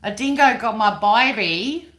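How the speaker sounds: high, loud mock-Cockney wail; over-the-top impersonation of a film mother, vowels broadened to "byebee"; Meryl Streep impersonation. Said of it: "you say it like Meryl Streep playing".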